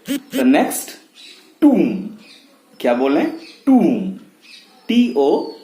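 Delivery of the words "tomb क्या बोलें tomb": "tomb" as toom, no B; silent B. Shown as a demonstration. Teacher asking what we say, silent B. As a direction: say "tomb" ending on M. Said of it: "pronounced as".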